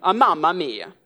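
put-on loud, high-pitched exasperated Italian accent; mock Italian accent. Local girl's imagined thoughts about British tourists, exasperated mock Italian accent. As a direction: rant it in a hammed-up Italian accent. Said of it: "I'm sure she was really thinking".

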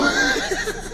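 squeaky high laugh in mom's voice; high mock giggle. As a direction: giggle high like his mother. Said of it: "She goes".

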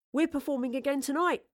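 happily eager; smiling. Acted. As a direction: say it through a smile. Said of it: "Thomas smiled".

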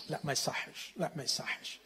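the small voice of conscience; conscience whisper. Acted.

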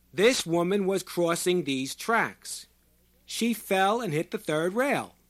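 loud, high, slow proclamation; roaring. A narrator's reading. Short man testifying over the ambulance siren, slow roar. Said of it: "His voice was a roar".

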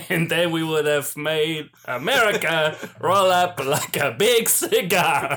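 hammy, badly done Italian accent; shaky Italian accent. Comic warming up for a villain scene, botched Italian accent. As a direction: attempt an Italian accent, stretching the final words. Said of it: "I can't do an Italian accent".

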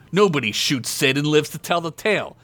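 rising into an angry rant; building rage. Acted. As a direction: let the fury build line by line. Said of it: "seething with anger".

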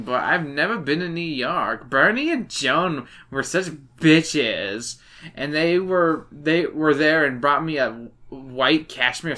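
slurring, lisping words; slurred speech. Acted. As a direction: slur every word like a drunk. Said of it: "you literally just sound like you're having a stroke".

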